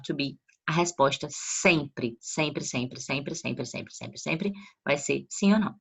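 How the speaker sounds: teacher stressing the rule for students; insistent repetition. Shown as a demonstration. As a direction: hammer sempre home, then let it trail away. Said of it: "Uma informação muito importante".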